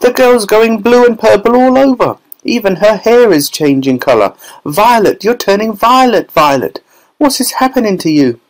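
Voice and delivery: mother begging for rescue; hysterical yell. A narrator's reading. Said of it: "yelled Missus Beauregard".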